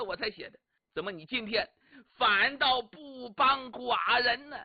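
李密拍案怒斥，声声质问; 像发怒的狮子一样质问背叛的臣子. Acted. 李密怒斥王八党. (李密质问王八党，怒气冲冲)

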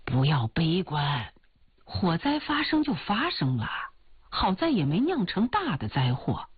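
拿腔拿调地安慰，起伏很大; 像追求者哄心上人宽心; 乐观劝慰的追求者. Acted. Suitor consoles heroine. (拿腔拿调、宽慰人的追求者)

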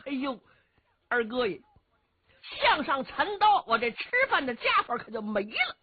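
high, giggly voice of a sly rough warrior; Cheng Yaojin's voice. Acted. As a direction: play the cunning bumpkin, chuckling and stammering.

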